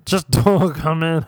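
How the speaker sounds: slow, laughing through the plea. Retold or imitated. Telling mum not to come in, slow and laughing. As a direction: plead with a laugh breaking in. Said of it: "I said".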